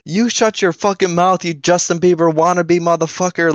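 high-pitched mock tirade; imitated angry roasting. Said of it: "just starts roasting my life".

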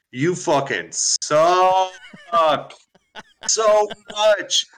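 slow, laughing put-down; laughing insult. Real, not acted. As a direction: laugh through the jab.

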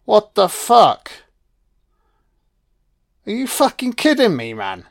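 real shock at the screen; shocked outburst. Real, not acted. Shocked at the scene.

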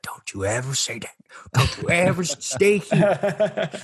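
high, pleading impression; impression of the man. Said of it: "He's like".

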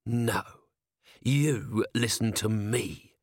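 controlled, drawn-out hiss; menacing hiss. A narrator's reading. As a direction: turn the order back on him, slowly. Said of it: "hissed Vimes".

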